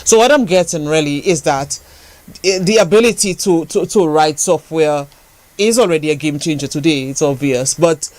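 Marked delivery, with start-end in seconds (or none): 0.0-7.1 measured, deliberate restatement; slow, careful. Real, not acted. Host restating the point to the software engineer, slow and careful. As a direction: lay it out slowly so it is understood. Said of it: "I'm gonna say it slowly".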